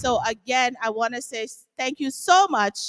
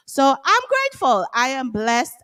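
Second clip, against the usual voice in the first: excited gratitude; 2 semitones higher, 4 dB louder than usual. Real, not acted. Gushing thanks to supporters.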